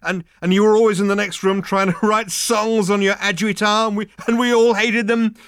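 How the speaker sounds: high, loud tipsy chatter; slap-on-the-back drunken nostalgia; loud drunk reminiscing. Acted. Drunk Ford keeps rambling.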